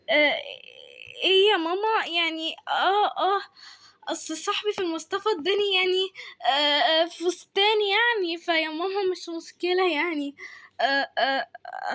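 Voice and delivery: hesitant, stammered excuse to mum; flustered stalling. Acted. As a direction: stretch out the fillers while hunting for an excuse. Caught by mother, stalls and explains.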